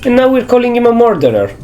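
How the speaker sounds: high, overdone sexy voice; badly faked sultry voice; attempted sexy voice. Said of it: "I don't know how to do a sexy voice".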